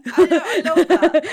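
real laughter from the host; laughing. Real, not acted. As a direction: laugh through it with delight. Host cracking up.

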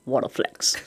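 breathy laugh through the words; real laughter over the words. Real, not acted. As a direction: giggle it out. Laughing at her own brag.

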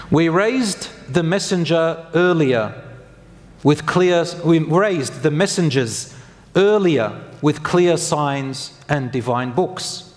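slow, deliberate verse reading; scripture recitation. Acted. Preacher quotes a Quran verse to congregation, slow solemn recitation. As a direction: give each phrase of scripture room, slowly.

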